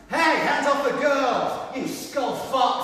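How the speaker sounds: slow, loud furious shout; angry yell. Acted. Football fan yelling at riot police to free the girls, furious slow shout. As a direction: bellow at the police to let go.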